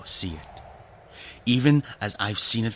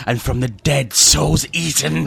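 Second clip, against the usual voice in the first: louder and higher, feverish; rising dread; 6 semitones higher, 10 dB louder than usual. Acted. Roderick feverishly warning his friend of the thing. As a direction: let the horror swell.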